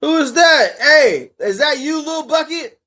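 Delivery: sudden loud high call of surprise; startled surprise. Real, not acted. Streamer startled hearing a voice, calls out surprised. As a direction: jolt up, surprised, calling out.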